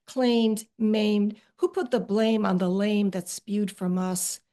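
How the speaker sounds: rhythmic spoken-word delivery, slowed and weighted; poem reading. Acted. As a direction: lean into the rhymes like a rant. Reading her own poem aloud.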